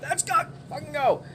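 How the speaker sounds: mock exasperated plea. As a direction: beg them to come out. Exasperated outside the window.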